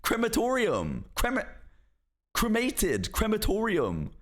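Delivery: high, exasperated "Crematorium" with "krem", "cremated" with "kruh"; British pronunciation. Shown as a demonstration. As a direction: correct them: "KREM-uh-TOR-ee-um", "kruh-MAY-tid". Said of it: "Only British pronunciation is allowed".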